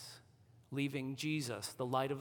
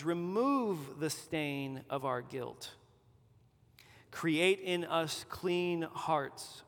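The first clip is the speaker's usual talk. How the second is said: measured scripture reading with pauses between lines; slow, deliberate reading. Real, not acted. Pastor reads David's psalm as a shared confession, slowly and deliberately. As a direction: read it slowly, weighing each phrase. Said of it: "I'm gonna read this slowly and deliberately".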